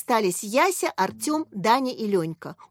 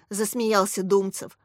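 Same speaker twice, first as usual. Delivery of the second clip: usual speaking voice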